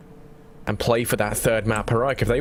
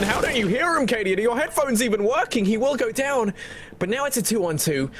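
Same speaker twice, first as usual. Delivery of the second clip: incredulous; 10 semitones higher than usual. Real, not acted. Caster reacting in disbelief.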